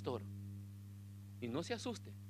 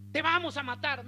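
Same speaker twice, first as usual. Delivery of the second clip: mock instructor shout; 7 semitones higher, 5 dB louder than usual. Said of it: "que están gritando".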